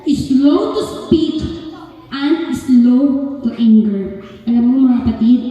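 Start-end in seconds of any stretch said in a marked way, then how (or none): 0.1-4.2 slow, solemn Bible reading; scripture reading. Acted. Preacher reading James to the congregation, slow and solemn. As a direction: read each phrase slowly and deliberately.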